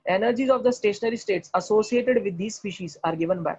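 slow, word by word textbook reading; slow dictation read. Acted. Teacher dictating a textbook line slowly. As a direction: read it out slowly so students can copy.

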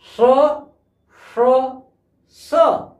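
a crisp drawn-out dental स hiss, said slowly three times; sibilant demo. Shown as a demonstration. Teacher to students, showing the dental स sound. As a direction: isolate स at the teeth, one at a time. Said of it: "ये हमारा यहां से बोला जाएगा".

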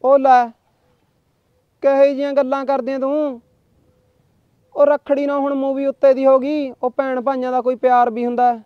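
high, loud protest on the phone; fake-outraged boyfriend; indignant. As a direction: scold her for what she just said. Arguing with girlfriend on phone.

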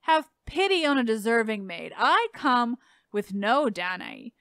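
slow, solemn reading of verse; dramatic poetry reading. Acted. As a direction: read it like a heartfelt plea. Reads a dramatic poem passage.

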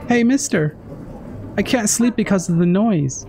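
polite, gentle little request; courteous. Acted. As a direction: ask politely and sweetly.

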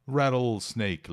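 Rattlesnake drawn out slowly, RED-l-snake; slow, careful model word. Shown as a demonstration. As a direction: spell out rattlesnake syllable by syllable. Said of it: "lembrou o Nando lá". (rattlesnake dito devagar, bem articulado)

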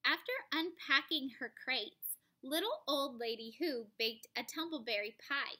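storybook reading voice; story narration. A narrator's reading. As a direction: read it like a bedtime story. Reading picture book aloud.

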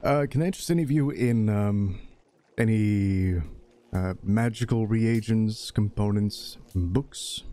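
hesitant pitch with halting pauses; a touch of nervous stalling. Acted. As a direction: offer it uneasily, feeling for each word. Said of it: "darting a little bit nervously and then says".

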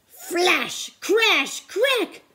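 high, rising bursts; dramatic sound words. A narrator's reading. Narrator voices the lightning strike: sharp bursts. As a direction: snap each word like thunder.

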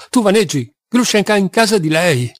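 stunned protest; incredulous exclamation. Acted. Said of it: "esclamò".

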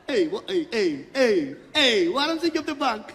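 high, loud, laughing bondscoach barking orders; a boss coach sending players on, shouting with a laugh; shouting Surinamese coach. Retold or imitated. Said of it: "Let op".

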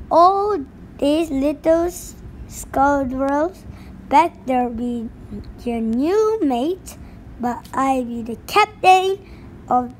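gruff pirate laying down the law; pirate captain voice. Acted. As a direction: bark the ship's rules like a captain. Pirate bus driver voice.

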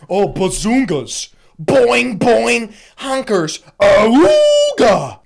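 loud, high goofy cartoon wolf-whistle voice; cartoon horny guy. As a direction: ham it up like a cartoon lech. Cartoon horny reaction to breasts.

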